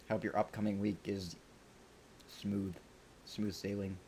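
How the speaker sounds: talking with coffee grounds in mouth; mouth full. Real, not acted. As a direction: speak through a gritty mouthful. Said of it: "I've got coffee grounds in my mouth".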